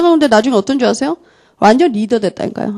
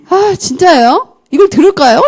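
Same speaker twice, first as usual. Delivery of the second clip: retold disbelief; 6 semitones higher than usual. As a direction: imitate a student asking in disbelief, pitched up. Student doubting the offer, acted.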